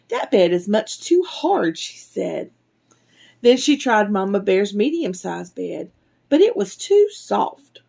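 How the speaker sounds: put-on measured, expressive reading to children; animated bedtime-story narration; storybook reading. A narrator's reading. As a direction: read a picture book aloud to little ones.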